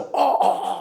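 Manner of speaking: voiceless croak of a blown voice. Retelling losing the voice after days of yelling: imitating a lost, hoarse voice. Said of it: "진짜로".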